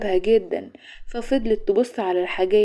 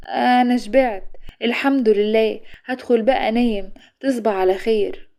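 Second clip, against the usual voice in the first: shy. Acted. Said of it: "وقالت بخجل".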